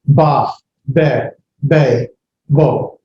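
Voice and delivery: "ba, be, be, bo" ending on open vowels; one syllable at a time in "ba, be, be, bo", no H after the vowel; silent final H. Shown as a demonstration. Teacher drilling vowel letters, "ba, be, be, bo" with open endings. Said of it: "There's no H sound at the end".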